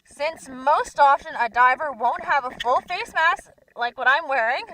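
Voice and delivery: talking through a dive mask mic; diver mask radio. Real, not acted. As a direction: underwater full face mask radio. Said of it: "hooked up to a microphone like I am today".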